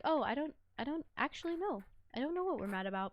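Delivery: lightly voiced sheepish dog; voicing the dog. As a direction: answer softly as the confused dog, dropping at the end. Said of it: "she's just like".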